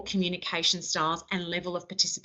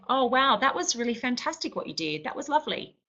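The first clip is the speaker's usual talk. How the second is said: higher, bright-sounding sincere praise; genuine praise; 5 semitones higher than usual. Shown as a demonstration. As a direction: praise it like you mean it. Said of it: "That seems like I'm being genuine".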